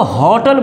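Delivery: होटल said with a clear h; होटल, start with a firm h; sounded h. Shown as a demonstration. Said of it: "ह बोल रहे हो". (ह के साथ होटल)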